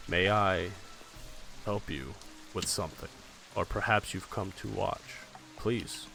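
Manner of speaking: lightly voiced villain, low and measured; different, menacingly polite tone. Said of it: "Completely different tone".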